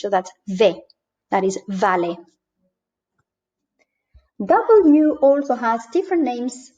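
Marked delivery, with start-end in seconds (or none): 0.5-0.8 ve with an English-like V; Latin American pronunciation. Shown as a demonstration. Teacher showing learners the Latin American V in ve. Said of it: "it is actually pronounced like in English". 1.7-2.2 vale with an English-like V; Latin American pronunciation. Shown as a demonstration. Teacher showing learners vale with an English-like V. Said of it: "it is actually pronounced like in English".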